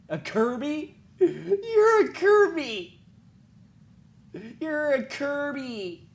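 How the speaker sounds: high, loud, slow laughing disbelief; laughing at the kid's boast; mocking laughter. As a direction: crack up mocking the claim.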